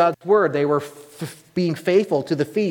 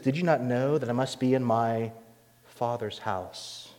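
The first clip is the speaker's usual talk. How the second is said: calm; 3 semitones lower, 6 dB quieter than usual. Retold or imitated. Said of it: "He's very calm".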